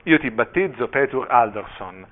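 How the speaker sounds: solemn proclamation, slowing on the name. A narrator's reading. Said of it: "Il vescovo alzò la voce".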